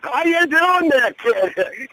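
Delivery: loud, high-pitched, stretched-out greeting; Roddy Piper. Retold or imitated. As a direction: hail the kid in a big, excited wrestler voice. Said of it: "big smile and everything".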